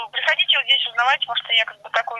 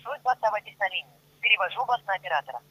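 phone menu voice; 4 semitones lower than usual. Acted. Virtual assistant transfers the call.

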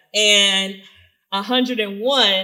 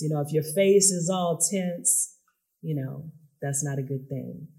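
soft spa whisper. Shown as a demonstration. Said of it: "let's do a little bit of relaxation".

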